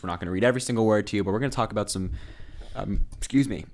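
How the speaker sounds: talking through hiccups. Real, not acted. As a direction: hiccups breaking up the words. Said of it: "I just keep hiccuping".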